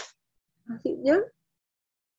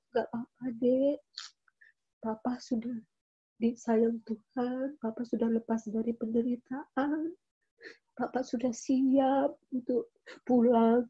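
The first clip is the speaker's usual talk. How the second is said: tender comfort; 4 dB quieter than usual. Retold or imitated. Mother comforts crying son.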